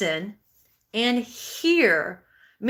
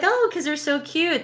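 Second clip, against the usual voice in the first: lightly acted higher-pitched gush; gushing parent; 7 semitones higher, 4 dB louder than usual. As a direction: lightly mimic parents fawning over a baby. Acting new parents admiring baby.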